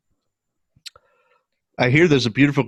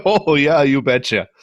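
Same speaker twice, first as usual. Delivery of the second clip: drawn-out Yooper catchphrase; Yooper accent. Shown as a demonstration. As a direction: say it like a folksy Yooper. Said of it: "That's a whole bunch of don't you knows".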